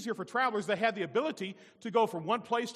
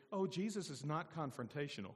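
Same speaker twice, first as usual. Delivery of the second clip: chuckling through it; softer, laughing sarcasm; laughing irony; 4 semitones lower, 9 dB quieter than usual. Real, not acted. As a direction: say it with a knowing laugh. Ironic joke with laugh.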